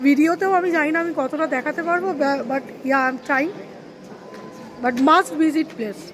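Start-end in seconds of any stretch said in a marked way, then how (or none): 4.8-6.0 very slow, drawn-out words; slow emphasis. Real, not acted. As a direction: stretch each word out. Closing recommendation.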